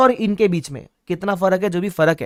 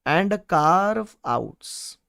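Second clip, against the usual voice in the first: drawn-out term; 4 dB quieter, much slower than usual. Shown as a demonstration. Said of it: "हम प्यार से बोलते हैं carve ins".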